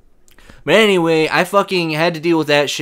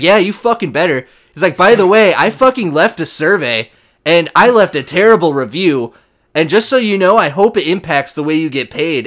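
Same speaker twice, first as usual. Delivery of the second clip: retold customer going off on the rep; angry customer; 2 semitones higher, 4 dB louder than usual. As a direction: vent at the rep. Customer rants again.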